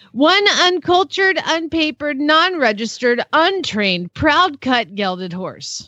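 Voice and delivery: sales pitch. Acted. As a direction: start high and step down item by item. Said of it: "I'm gonna sell this thing".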